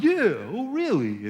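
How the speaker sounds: mock tough retort, swooping up then down; imitated defiant comeback. Boy answering the bully back, mock defiant. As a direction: throw the challenge back with a big pitch swoop. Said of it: "And I'm like".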